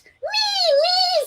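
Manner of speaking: put-on very high child squeal; high squeaky me me; eager little boy. A narrator's reading. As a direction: shout like a bouncing kid.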